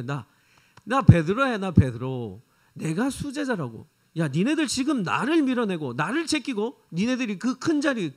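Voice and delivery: puffed-up protest of the top disciple; jealous Peter. Acted. Peter confronting the brothers, jealous and indignant. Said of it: "베드로는 아마도 이렇게 말하지 않았겠습니까".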